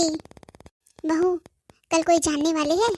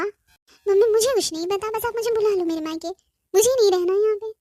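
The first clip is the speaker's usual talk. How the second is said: tearful pleading; 4 semitones higher than usual. Acted. Bride begging her mother through tears to fetch her. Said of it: "ये रोना बंद कर".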